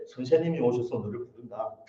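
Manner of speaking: soft, subdued acted relay of a message; unenthusiastic report. Sister relays the message without conviction, unenthusiastic. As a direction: pass it on without any excitement. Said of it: "그런 느낌이 들었어요".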